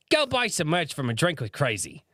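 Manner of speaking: lightly faked Australian plug; American attempting an Australian accent; bad Australian accent. Shown as a demonstration. Goat mascot plugs the merch, bad Australian accent. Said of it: "American version of an Australian accent".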